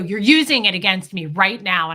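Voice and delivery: imitated angry accusation, loud; getting mad. Husband accusing his wife as she stays unbothered, getting mad. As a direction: voice a partner losing his temper. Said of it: "he'd get more and more mad".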